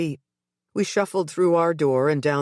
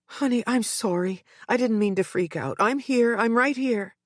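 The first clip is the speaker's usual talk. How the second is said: whispered; 7 semitones higher than usual. A narrator's reading. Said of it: "I whispered".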